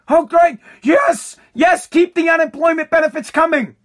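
hammed-up glee at free money; mock excited cheering. Mocking liberals cheering in the streets, hammed-up glee. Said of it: "They're all excited".

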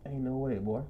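low-key, softly stunned mutter; hushed disbelief. Retold or imitated. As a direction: say it to yourself in quiet disbelief. Quoting own stunned disbelief.

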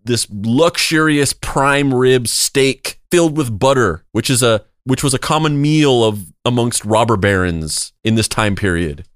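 a lightly voiced arrogant rich boss; gravelly old tycoon. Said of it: "They're like".

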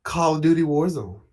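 lightly put-on award show host; white woman announcer voice. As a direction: read it like a polished announcer. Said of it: "my white woman, um, announcer voice".

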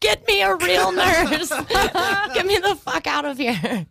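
exasperated demand. Retold or imitated. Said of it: "And I was like".

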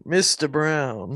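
slow, drawn-out catchphrase; Ronnie from Baltimore. Retold or imitated. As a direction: stretch out each word as the comic character. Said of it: "his fucking character".

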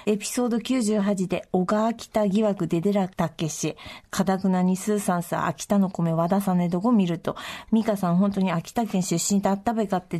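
low, unhurried Akita dialect reading of the letter; 秋田弁で読む. Acted. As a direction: read the letter aloud in broad Akita dialect. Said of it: "私が秋田弁で読みますね". (秋田弁で、少し低めにゆったり読み上げる)

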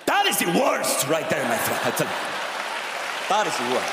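a lightly voiced, grave miner; trapped miner lamenting to a friend, mock-grave. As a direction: moan it like a man stuck underground. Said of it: "miner voice again".

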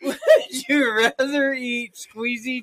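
laughing through pain. Real, not acted. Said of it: "it hurts to laugh this hard".

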